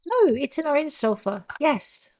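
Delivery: high and eager, thrilled at the catch; excited. Real, not acted. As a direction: pitch up with delight at the butterfly. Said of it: "Got excited".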